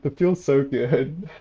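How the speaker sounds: slow, loud and delighted; elated. Real, not acted. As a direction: savour the win aloud. Big damage surprise.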